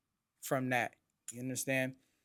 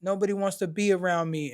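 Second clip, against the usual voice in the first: mock yell, higher and louder; moderately raised, high-pitched outburst; retold screaming; 5 semitones higher, 5 dB louder than usual. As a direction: imitate mom crying out in complaint. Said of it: "She's screaming".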